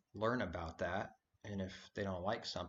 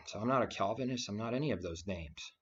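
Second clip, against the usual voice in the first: louder and faster, pressing forward; firm declaration; 5 dB louder than usual. Real, not acted. Preacher rejecting labels to listeners, loud firm declaration. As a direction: declare it fast and strong.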